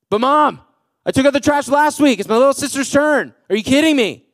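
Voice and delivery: hammed-up bratty protest; whiny kid. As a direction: complain like a kid stuck with chores. Kid complaining to mom.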